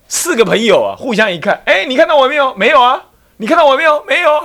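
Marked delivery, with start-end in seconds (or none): 1.7-4.4 put-on higher, giddy young rascals checking if they're seen; high, excited back-and-forth between young friends; excited whispering friends. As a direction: play the pranksters thrilled at being invisible. Invisible friends check each other.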